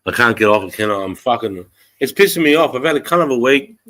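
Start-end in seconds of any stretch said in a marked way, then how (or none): 2.0-3.8 irritated venting, pitched up; genuinely fed up; pissed off. Real, not acted. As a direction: vent real frustration, a bit louder. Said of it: "I'm fucking pissed off".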